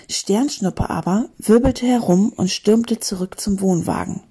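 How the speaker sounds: animated storybook reading; story narration. A narrator's reading. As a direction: read an adventure to a class, clearly articulated. Reads a story aloud.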